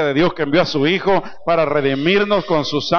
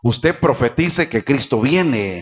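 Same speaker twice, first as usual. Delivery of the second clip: slow exhortation; slower than usual. Acted. Preacher exhorting congregation slowly.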